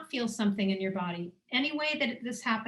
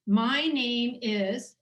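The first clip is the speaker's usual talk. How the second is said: slow, deliberate "My name is"; slow model statement; much slower than usual. Shown as a demonstration. Facilitator modelling the statement for the group, slow and deliberate. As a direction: say "My name is" slowly and deliberately, stretching each word. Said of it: "And the statement is".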